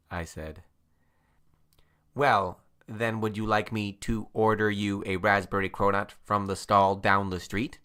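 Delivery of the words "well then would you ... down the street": robot voice. Acted. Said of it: "the robot asked".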